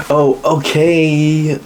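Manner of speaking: high, very slow stretched "Oh, okay"; mock drawn-out okay. Mocking a guy adding extra letters, high and drawn-out. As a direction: stretch it out in a mocking sing-song.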